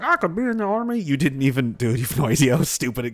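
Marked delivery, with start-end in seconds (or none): 0.0-1.0 mocking naive recruit. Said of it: "people going to the Air Force like".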